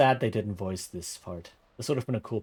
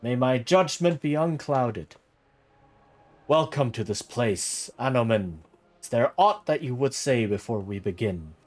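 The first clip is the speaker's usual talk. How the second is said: booming prelate; 5 dB louder than usual. Acted. Prelate questioning the squire at his knighting, booming. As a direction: proclaim like a judge in a great hall.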